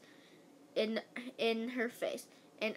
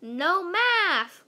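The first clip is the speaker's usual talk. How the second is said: excited cheer; 6 semitones higher, 8 dB louder than usual. Acted. Kids cheering in class.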